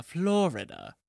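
Florida softly lilted; sing-song. Shown as a demonstration. Illustrating a third way, sing-song Florida. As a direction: give Florida a soft sing-song tune. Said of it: "more of a sing-song".

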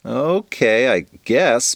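hesitant, half-convinced okay; shrugging agreement. Acted. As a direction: go along with it reluctantly. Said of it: "Rose shrugged".

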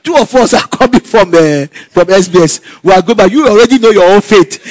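a sulky friend, half laughing; lightly voiced Rachel, laughing at the end. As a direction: complain about your unknown result. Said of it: "He said".

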